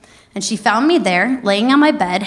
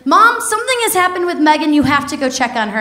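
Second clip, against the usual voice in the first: mock tearful plea; 5 semitones higher, faster than usual. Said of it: "she called her crying".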